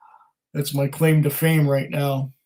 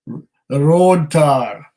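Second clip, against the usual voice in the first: slow, drawn-out mock Scottish accent; terrible Scottish accent; 4 dB louder, much slower than usual. Whisky host savouring the dram, slow hammed-up Scottish accent. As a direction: drag out road tar in a bad Scottish accent. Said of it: "please excuse my really terrible Scottish accent".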